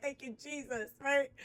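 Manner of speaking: high-pitched thanks to Jesus; high praise. Real, not acted. Thanking Jesus for the fax, high and joyful. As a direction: sing out thanks.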